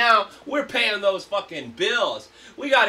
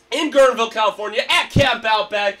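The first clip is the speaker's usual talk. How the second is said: festival hype shout; 4 semitones higher, 5 dB louder than usual. Real, not acted. Host announcing festival lineup.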